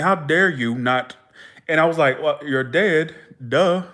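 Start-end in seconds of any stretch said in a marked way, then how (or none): 0.0-1.2 slow, drawn-out reproach; retold scolding. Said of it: "He was scolding me in the dream". 2.2-3.8 mock obvious-statement sass; retold cheeky comeback with a dismissive duh; smart-mouthed. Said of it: "Like that".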